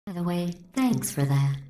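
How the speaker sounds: synthetic voice, dryly sarcastic; sarcastic thanks. Acted. AI thanking its killer, sarcastically. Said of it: "Sarcasm self-test complete".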